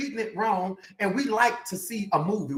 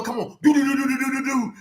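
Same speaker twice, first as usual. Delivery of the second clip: imitated drummer; 5 semitones higher, faster than usual. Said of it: "then the little drummer".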